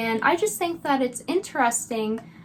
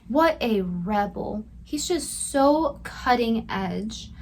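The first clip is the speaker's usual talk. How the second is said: slow, deadpan mock praise; dry sarcasm; slower than usual. Commentator sarcastically praises the nephew, slow deadpan. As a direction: drag it out, utterly unimpressed.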